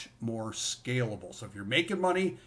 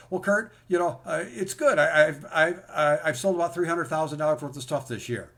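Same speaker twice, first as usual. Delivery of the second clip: a hint of an Indian accent, a bit louder; 4 semitones higher, 6 dB louder than usual. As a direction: lightly voice a student's Indian accent. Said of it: "in his, uh, beautiful Indian accent".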